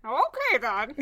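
put-on high kid-brother whine; whiny little sibling. Shown as a demonstration. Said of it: "that's as good as I can get it".

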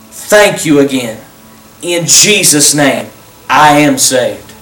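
earnest, unhurried prayer voice; leading a prayer. Acted. Pastor leading viewers in a salvation prayer, earnest and unhurried.

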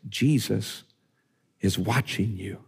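a hint of a hushed, spooky voice from nowhere; eerie hidden voice. Preacher voicing a parrot to a burglar, mild spooky hush. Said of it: "he hears a voice that says this".

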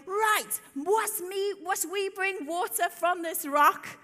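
fed up, spell it out slowly; annoyed Moses. Acted. Moses fed up with the people, slow exasperated demand. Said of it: "he's really annoyed with the people and going".

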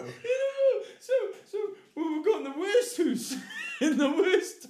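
loud, high, helpless laughter; laughing too hard to talk; cracking up. Real, not acted. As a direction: squeeze the words out while laughing. Cracking up at the story.

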